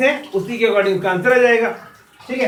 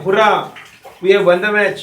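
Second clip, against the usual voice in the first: loud, happy victory shout; joyful cheer; 6 dB louder, slower than usual. Acted. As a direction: cheer like a kid who just won. Teacher acts out joyful cheer. (ज़ोर से खुशी भरी जयकार)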